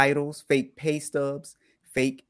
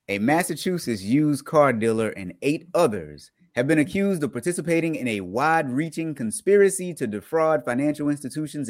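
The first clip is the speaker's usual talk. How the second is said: crisp news anchor read; newscaster voice; 3 semitones higher than usual. Acted. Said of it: "That was my doggone, uh, newscaster voice right there".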